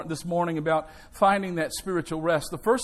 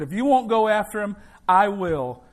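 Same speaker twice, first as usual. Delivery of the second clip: mild angry yell; 3 semitones higher, 5 dB louder than usual. Acted. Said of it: "furiously yelled at the lifeguard".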